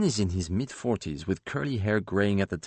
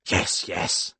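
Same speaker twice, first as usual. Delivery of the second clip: placating. Acted. Editor answering Paul about the car, placating. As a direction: wave the matter away soothingly. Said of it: "the editor says placatingly".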